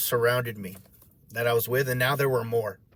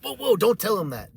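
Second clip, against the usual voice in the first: alarmed interruption; 6 semitones higher than usual. Retold or imitated. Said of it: "it's like if he was like".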